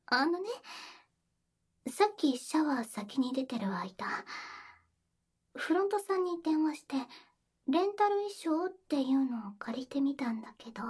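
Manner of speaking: whispering. Acted. Intimate whispered roleplay.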